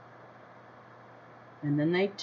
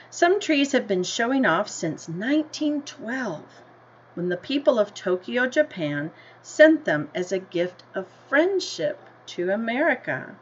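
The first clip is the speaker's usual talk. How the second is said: story reading; 2 semitones higher than usual. A narrator's reading. Teacher reading the class a picture book, in an unhurried storybook voice. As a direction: read it like a picture book to kids.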